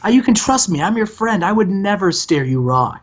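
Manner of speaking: lightly voiced sleazy TV boss sweet-talking; Bischoff impression. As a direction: pitch it up like a smarmy promoter reassuring his star. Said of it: "He's like".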